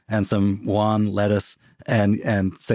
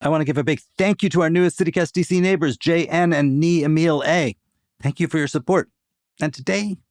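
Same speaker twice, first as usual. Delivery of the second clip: promo read. Acted. Host reads the membership plug.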